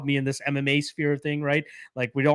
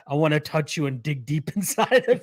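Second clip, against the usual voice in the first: Guru impression; 3 semitones higher than usual. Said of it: "Guru is maybe my favorite part".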